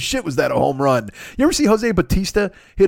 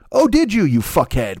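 high, mocking oh; sneering high mock; sarcastic; 4 semitones higher than usual. Real, not acted. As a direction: taunt him with fake interest. Mocking the slang user.

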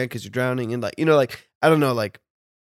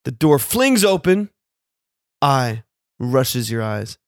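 dramatic narration; 3 dB louder, slower than usual. Pretend. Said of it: "I don't like your audiobook narrative, voice right now".

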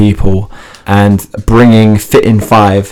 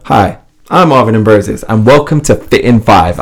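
presenter intro. Shown as a demonstration. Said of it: "That's exactly how you said it on YouTube".

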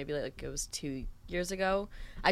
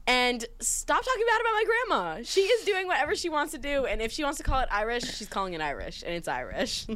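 heated retold rant; 5 semitones higher than usual. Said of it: "And I was like".

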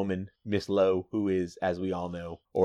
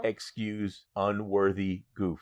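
slow, softer mock-humble editor; humble apology; 2 semitones lower, 5 dB quieter, slower than usual. Editor apologizing to an honorable reader, mock-humble. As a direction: grovel slowly, fading quieter.

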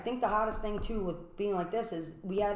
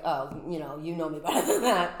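laughing; 3 dB louder than usual. Retold or imitated. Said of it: "I was like".

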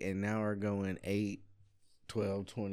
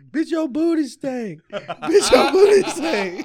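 high, loud, cracking up; laughing yell; 16 dB louder, slower than usual. Retold or imitated. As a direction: shout it through laughter. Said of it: "told that motherfucker".

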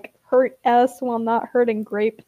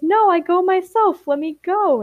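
put-on raised pitch, childlike insistence; insistent, higher-pitched refusal; mild protest; 7 semitones higher than usual. A narrator's reading. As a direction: protest as if trying to wriggle free. Ash resists being taken along.

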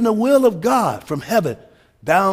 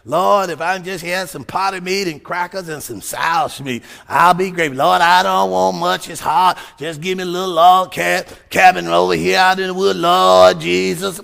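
mock weary complainer; 4 semitones lower than usual. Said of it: "Some people think it just gotta be so bad down here".

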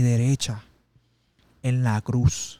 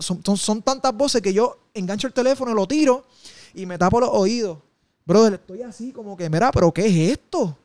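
retold panic; 5 semitones higher, 4 dB louder than usual. Panicked retelling of hearing voices.

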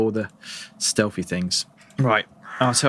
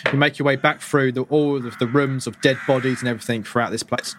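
speaking through hiccups. Real, not acted. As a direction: talk while hiccuping. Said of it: "Oh my God, hiccups".

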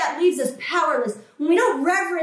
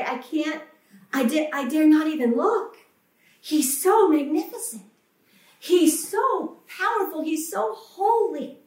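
awed angel. Retold or imitated. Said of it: "They were created to say".

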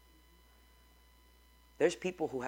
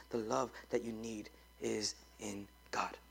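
whisper; 4 semitones lower, 8 dB quieter than usual. Acted. Pastor whispering a hard truth to the church. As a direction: drop to a whisper to land it.

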